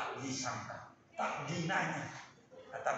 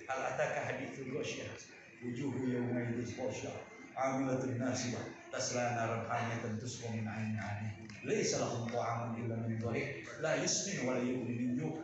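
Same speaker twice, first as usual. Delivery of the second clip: lower, measured Arabic recitation; Quran recitation; 4 semitones lower than usual. Real, not acted. Preacher recites Al-Ghasyiyah to the congregation, measured recitation. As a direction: recite the verses evenly, pitched low.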